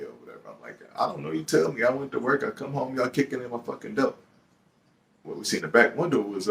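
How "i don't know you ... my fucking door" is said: raised, pitched-up exasperated reply; indignant. Retold or imitated. Man answering the detective, raised exasperated indignation. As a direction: throw it back at the detective, fed up.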